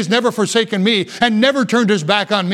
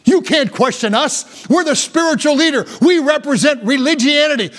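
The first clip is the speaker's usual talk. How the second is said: lightly voiced, indignant religious leader; a hint of an affronted Pharisee; 5 semitones higher than usual. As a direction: raise the pitch a little, mock self-important authority. Acts out Pharisees rebuking the man.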